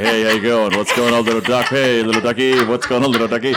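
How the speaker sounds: casual cool-guy hello to ducks; low cool greeting. Retold or imitated. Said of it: "I was like".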